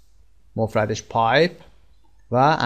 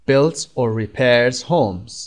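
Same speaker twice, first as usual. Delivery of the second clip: slow model reading; much slower than usual. Shown as a demonstration. Teacher reads the definition to learners, very slow and careful. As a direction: read "Builds or repairs homes" very slowly, word by word. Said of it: "teacher models definition sentence".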